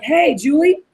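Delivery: easy, familiar phone greeting; comfortable, personal. Shown as a demonstration. Kathy calling a friend's buddy from the script, comfortable and personal. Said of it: "it's very comfortable".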